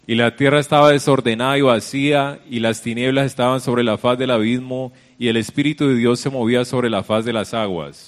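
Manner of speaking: preacher reciting Scripture with force; preaching scripture. Acted. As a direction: proclaim the verse to the congregation. Preacher declaims scripture to congregation.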